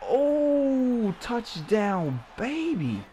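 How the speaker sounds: high excited cry of joy; touchdown cheer. Real, not acted. Scoring a touchdown.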